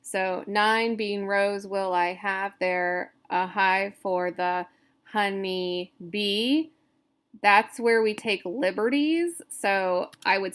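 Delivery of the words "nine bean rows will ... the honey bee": slow, stretched verse reading; deliberate beat-by-beat recitation; scansion reading aloud. Shown as a demonstration. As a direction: draw out each syllable to count it. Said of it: "talking out loud when you're doing scansion".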